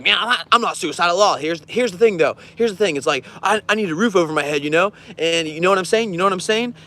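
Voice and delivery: lightly voiced homeless roommate; talky guy. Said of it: "he's like".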